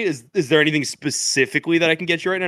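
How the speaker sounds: fast mock server voice; flustered manager. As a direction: rush out the offer. Manager voiced in retold story.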